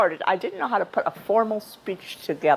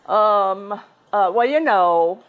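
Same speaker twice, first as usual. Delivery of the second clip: louder, drawn-out mock stalling; imitated filler-laden hesitation; 4 dB louder, much slower than usual. Imitating call centre staff talking to callers, hesitant stalling. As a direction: imitate a phone agent fumbling for words. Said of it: "so often I hear".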